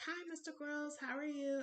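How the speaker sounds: high, sweet re-enacted hello; imitating a high-pitched, starstruck hello; starstruck greeting. Greeting the celebrity she admires.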